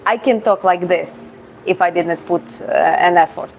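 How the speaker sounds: lightly thickened Georgian-Russian accent. Shown as a demonstration. Streamer showing chat an effortless accent, Georgian-Russian accented English. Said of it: "because of my Georgian and Russian background".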